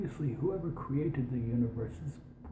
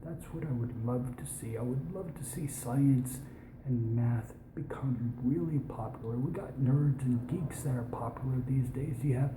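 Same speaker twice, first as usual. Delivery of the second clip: put-on, overly posh British accent; an American doing dodgy posh British. Real, not acted. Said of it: "speak in a British accent these days".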